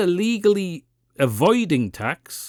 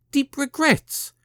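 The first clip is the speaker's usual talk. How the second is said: mocking echo; 11 semitones higher, slower than usual. Commentator mocks the politician's apology, high and slow. Mocking her claimed regrets.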